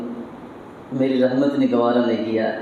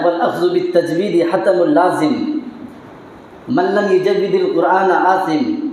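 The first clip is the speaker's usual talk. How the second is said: slow, chanted Arabic verse, a little higher; Arabic verse recitation; 4 semitones higher, slower than usual. Acted. Preacher quoting Imam Jazari to the congregation, slow solemn recitation. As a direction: intone the scholar's couplet with measured weight. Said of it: "امام جزری رحمۃ اللہ علیہ نے فرمایا ہے".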